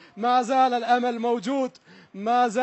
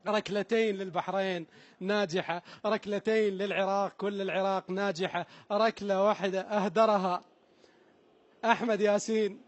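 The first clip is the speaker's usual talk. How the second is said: hushed tension; 3 semitones lower, 5 dB quieter than usual. Real, not acted. Tense summary of the score.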